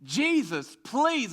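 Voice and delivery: desperate begging. Retold or imitated. Preacher acting out the man begging Jesus, high pleading cry. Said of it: "It was like begging".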